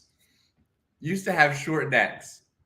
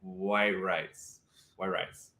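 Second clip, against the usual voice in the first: put-on French accent; 6 semitones lower, 6 dB quieter, much slower than usual. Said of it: "how does she pronounce it".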